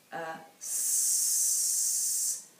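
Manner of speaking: a long hissed sh; sh sound. Shown as a demonstration. Teacher modelling the sh sound for the class. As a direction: hold the sh sound out. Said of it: "can you write me your sh sound".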